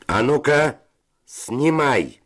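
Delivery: high, insistent order; commanding. A narrator's reading. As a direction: demand it sharply, pitch jumping up. Gambler orders man to strip.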